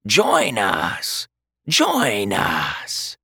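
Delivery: hollow corpse call; undead creature voice. A narrator's reading. The other Draugr calls Jonathan to join them, hollow creature voice. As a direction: lure him in like a dead thing. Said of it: "the other said".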